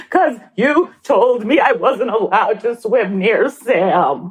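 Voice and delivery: put-on slow crying little-boy voice; tearful child. Son to mother, slow and tearful. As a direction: explain through tears.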